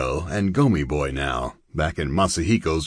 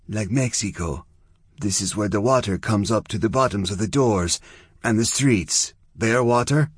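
higher character voice, mildly wondering; Zona, fierce, now curious; 5 semitones higher than usual. Acted. Zona looking over Chia's Venice, mildly curious. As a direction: take in the strange place with curiosity.

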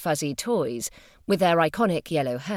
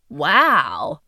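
impressed, louder wow; appreciative wow; 3 semitones lower, 7 dB louder than usual. Acted. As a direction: sound genuinely impressed. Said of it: "she said appreciatively".

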